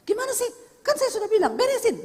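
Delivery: high, loud scolding of a staffer; angry phone scolding. Retold or imitated. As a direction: snap at staff over the phone. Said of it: "dia telepon terus marah-marah". (suami kaya membentak anak buah di telepon, marah)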